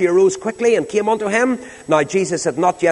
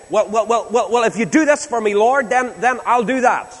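higher, stammering plea; bargaining; 5 semitones higher than usual. Acted. Terminally ill person making a deal with the Lord, pleading. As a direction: stumble into a hopeful deal, pitch raised. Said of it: "then they start bargaining".

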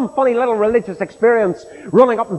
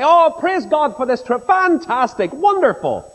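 higher, hammed-up gushing praise; mock cheerful; 6 semitones higher than usual. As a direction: gush like a fake-happy believer. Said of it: "you say".

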